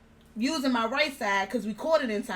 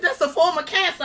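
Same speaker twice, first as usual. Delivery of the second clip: breaking down; 8 semitones higher, 7 dB louder than usual. Retold or imitated. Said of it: "I started breaking down".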